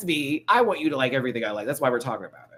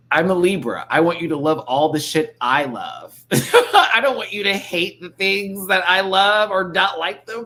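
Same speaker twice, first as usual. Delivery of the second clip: high, loud whiny plea; mock Libra whining with a laugh; Libra impression; 5 semitones higher, 8 dB louder than usual. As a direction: beg them to love what you love. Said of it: "That is Libra down".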